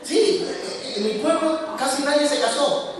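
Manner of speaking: amused, laughing confession to the congregation. Real, not acted. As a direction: chuckle while admitting it. Laughing about his village.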